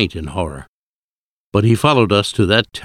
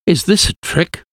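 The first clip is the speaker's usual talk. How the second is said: higher-pitched, startled disbelief; shocked gasp; 9 semitones higher than usual. A narrator's reading. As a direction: ask it as if shock has caught you. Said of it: "I gasped".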